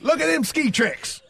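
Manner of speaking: high, drawn-out excited play-by-play parody; goofy squealed sports call, played for laughs; hammed-up high-pitched announcer; mock commentator. Mocking play-by-play of ski tricks.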